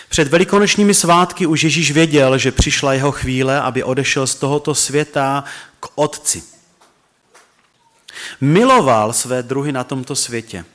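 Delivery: measured, solemn Bible reading; scripture reading. Acted. Pastor reading the gospel aloud to the church, solemn reading. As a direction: read the verses steadily to the congregation.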